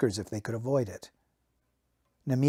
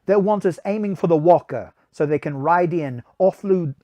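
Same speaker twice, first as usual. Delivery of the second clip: voice for Namir; 4 semitones higher, 5 dB louder than usual. Acted. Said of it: "let me give him a voice".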